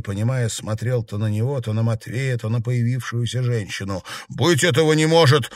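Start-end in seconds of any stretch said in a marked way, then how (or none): 4.3-5.5 higher, louder cry of disbelief; exclaiming. A narrator's reading. Matvey sees Aglaya appear, shocked cry. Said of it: "воскликнул Матвей".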